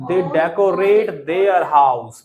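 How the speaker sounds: very slow, word by word; teacher models for class to repeat, slowly; slow model sentence. Shown as a demonstration. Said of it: "बोलिए, come on".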